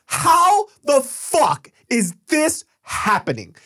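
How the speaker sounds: laughing in disbelief at the absurdity; cracking up while telling it. Real, not acted. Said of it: "disbelief while laughing".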